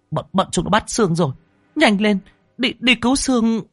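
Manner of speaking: high, fast, frantic plea; panicked urging. A narrator's reading. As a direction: urge him on in panic. Panicked girl begs for help.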